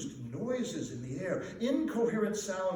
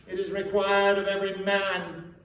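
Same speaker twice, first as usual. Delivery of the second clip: moaning ghost; 3 semitones higher, 8 dB louder than usual. A narrator's reading. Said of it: "the ghost moaned".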